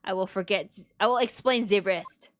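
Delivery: put-on lightly accented, wounded French brother; lightly voiced French character. Character recalls being teased for red hair, light French accent.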